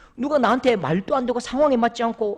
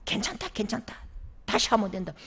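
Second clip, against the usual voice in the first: comforting; 9 dB quieter than usual. Retold or imitated. Mother comforting son.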